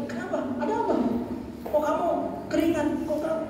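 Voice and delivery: the wrong way, panicking along with a frightened person; alarmed questioning. Retold or imitated. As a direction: fire off worried questions in a fluster. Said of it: "Jangan kita malah ikut kaget".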